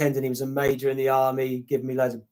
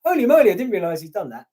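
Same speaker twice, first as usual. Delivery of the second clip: mildly hammed-up astonishment, higher and louder; amazed viewer; 5 semitones higher, 5 dB louder, faster than usual. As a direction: imitate a viewer's surprised reaction. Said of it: "you'll be like".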